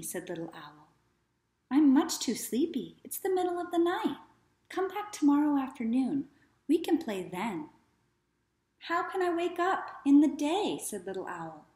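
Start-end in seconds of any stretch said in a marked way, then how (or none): 1.7-7.7 higher, lightly put-on young boy protesting; a lightly voiced boy. Boy Tom answers owl. 8.8-10.8 higher, plaintive little owl question; lightly voiced little owl. Little owl asks, worried.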